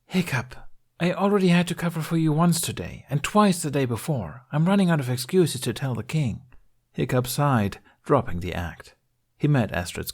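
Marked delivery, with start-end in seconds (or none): 0.0-6.4 deadpan. Acted. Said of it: "Astrid deadpanned".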